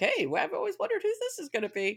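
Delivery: high, lilting put-on voice, pitched way up.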